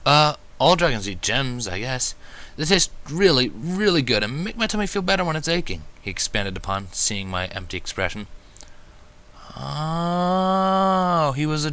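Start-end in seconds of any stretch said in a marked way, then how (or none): 0.0-5.8 put-on little dragon boy. Spike explains eating gems.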